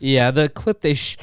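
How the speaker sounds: talking through hiccups; interrupted by a hiccup. Real, not acted. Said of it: "got the hiccups".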